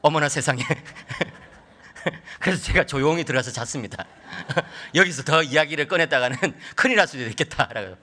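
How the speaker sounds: laughing through the words; amused chuckling. Real, not acted. Husband admitting he gave up arguing, chuckling. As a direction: chuckle ruefully while telling it. Laughing at his own defeat.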